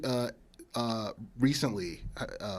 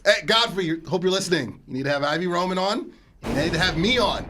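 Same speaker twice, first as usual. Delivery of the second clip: calling out; 4 semitones higher, 4 dB louder than usual. Acted. Calling out to Godfrey.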